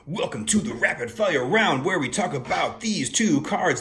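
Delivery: high, loud, fast game show host patter; rapid fire announcer. Pretend. Vlogger hosting a mock rapid fire round, fast and loud. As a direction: rattle it off like a quiz host. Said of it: "We're gonna slow it down because I can't keep up that pace".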